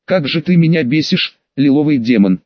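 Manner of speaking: usual speaking voice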